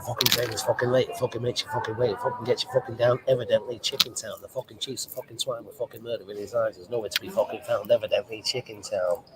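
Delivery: rhythmic, driving punk-poet recital; poem recitation. Acted. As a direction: recite it in a steady, relentless beat. Recites a punk poet's poem.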